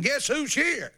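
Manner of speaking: excited lady on phone. Retold or imitated. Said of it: "Started calling home, saying".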